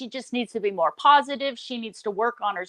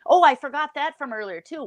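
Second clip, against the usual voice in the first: high, louder mock condescension; condescending; 5 semitones higher, 3 dB louder than usual. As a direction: talk down to the listener, sing-song.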